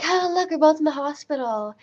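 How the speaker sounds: high, mock-cheery imitation; chirpy receptionist. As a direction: mimic her perky small talk. Imitating the chirpy desk lady.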